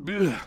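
short groan of frustration; venting ugh. Acted. Preacher dumping frustration toward God, short venting groan. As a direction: let it all out in one grunt.

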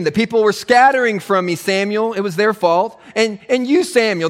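light mock whine of Saul; whiny blaming Saul. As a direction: shift the blame onto Samuel.

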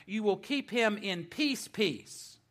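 "peace" repeated for emphasis, the second one falling; stress on peace. Shown as a demonstration. Preacher shows the verse's repeated noun, stress on peace. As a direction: set the doubled "peace" apart. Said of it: "Emphasis on peace".

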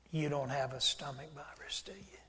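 soft whispered question. Retold or imitated. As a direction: whisper it gently, as if you already know. Gently confronting the crying girl.

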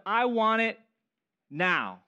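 demanding, impatient "I want it now"; entitled. Shown as a demonstration. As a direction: say it like a spoiled kid who wants it now. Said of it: "You sound really entitled".

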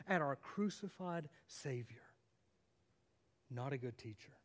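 hushed whisper. Real, not acted. Pastor telling his church about the crucified Savior, whispered. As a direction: whisper the solemn point. Solemn point of sermon.

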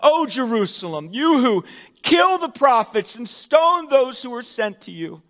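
loud, high grieving cry; weeping lament. Acted. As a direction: plead with the city in grief. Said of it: "this is Jesus weeping".

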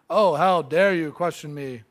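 huffy offended ruler; mock scolding king; pompous shrill tyrant. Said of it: "He's not offended".

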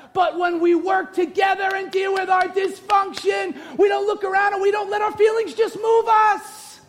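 high, sustained preaching shout. Real, not acted. Preacher correcting what the culture says, full-force preaching.

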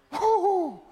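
high, loud celebratory woo-hoo; joyful whoop. Real, not acted. Preacher celebrates the coming kingdom with a high whoop. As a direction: let out a happy whoop.

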